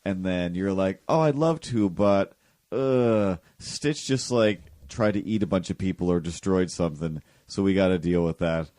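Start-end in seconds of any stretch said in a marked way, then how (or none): 1.1-8.7 bright, raised, quick apology; sing-song brush-off with a laugh in it; chirpy excuse. Retold or imitated. Retold reply, acting out Lilo.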